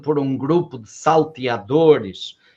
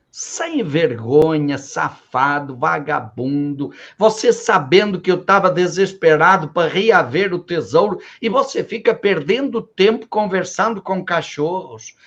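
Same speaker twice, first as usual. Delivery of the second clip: mild furious scolding; 3 semitones higher than usual. Acted. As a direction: throw the son out in mock fury. Father scolding and disowning son. (bronca de pai bravo, encenada de leve)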